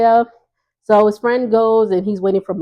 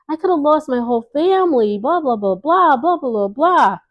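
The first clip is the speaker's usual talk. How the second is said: mock dramatic friend; 6 semitones higher than usual. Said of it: "you being a little too dramatic".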